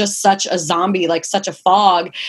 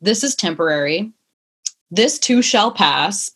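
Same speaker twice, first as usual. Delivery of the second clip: calming self-talk. Retold or imitated. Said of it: "sit and say to myself".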